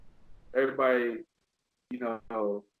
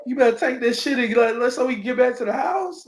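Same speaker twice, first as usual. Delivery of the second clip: calling the dog back; 9 semitones higher, 6 dB louder than usual. Retold or imitated. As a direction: yell the dog back home, pitched up.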